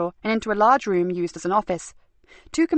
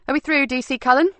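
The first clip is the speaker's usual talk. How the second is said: icy; 6 semitones higher, 3 dB louder than usual. A narrator's reading. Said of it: "asked Nikki rather icily".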